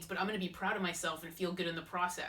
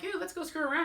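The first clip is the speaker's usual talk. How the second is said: bratty; 11 semitones higher than usual. Retold or imitated. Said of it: "I'm like".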